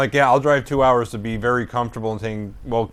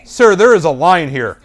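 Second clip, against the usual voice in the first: slow, louder mock scolding; imitated reprimand; 3 semitones higher, 6 dB louder than usual. Woman in line to supposed cutter, scolding. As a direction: tell him off slowly and firmly.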